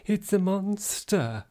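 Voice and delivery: high, slow, drawn-out Welsh-free mock alarm; mock startled witness. Imagined ignorant onlooker meeting an unknown animal, mock alarm. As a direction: stretch it out in put-on amazement. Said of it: "you would be probably like".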